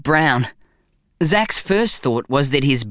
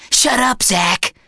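sharp interruption; 8 semitones higher, slower than usual. A narrator's reading. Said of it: "interrupted his bum".

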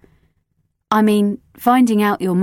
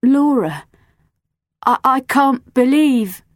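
dismayed; 7 semitones higher, 6 dB louder, slower than usual. Acted. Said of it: "she was shaking her head in utter dismay".

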